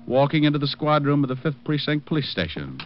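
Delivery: wry private-eye storytelling over music; first-person detective narration. Acted. Private eye telling listeners about leaving her place, narrating.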